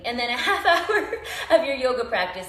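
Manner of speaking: giggling through the words; laughing. Real, not acted. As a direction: laugh while you say it. Laughs after burping.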